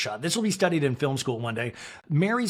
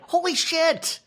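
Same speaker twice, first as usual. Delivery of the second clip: high shrieked curse; a retold jump-scare shriek; mock scream; 13 semitones higher, slower than usual. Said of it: "she screams and throws her phone".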